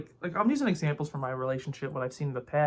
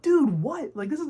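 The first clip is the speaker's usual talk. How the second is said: retold disbelief; 10 semitones higher, 5 dB louder than usual. Retold shocked reaction to friend.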